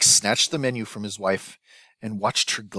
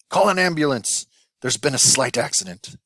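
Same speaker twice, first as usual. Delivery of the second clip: panicked shout; 6 semitones higher, 6 dB louder than usual. A narrator's reading. Chef panicking after explosion.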